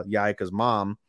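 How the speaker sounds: usual speaking voice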